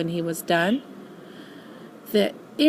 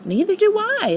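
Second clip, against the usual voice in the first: laughing; 11 semitones higher, 4 dB louder, faster than usual. Acted. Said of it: "laughed Pooh".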